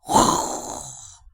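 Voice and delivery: long voiceless blast of breath; imitated roar. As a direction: blast all the air out like a lion. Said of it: "에너지가 입으로 확 나가는". (숨을 길게 내뿜는 사자 포효)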